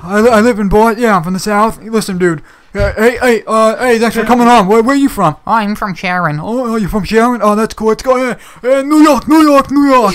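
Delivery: fake Boston streamer. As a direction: babble like a dim livestream host hyping himself up. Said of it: "that's not how people from Boston talk".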